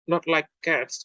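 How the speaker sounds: high, indignant mouse outburst; a small mouse's shrill, offended cry; shrill passionate. A narrator's reading. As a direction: squeak it out in outrage. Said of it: "in a shrill, passionate voice".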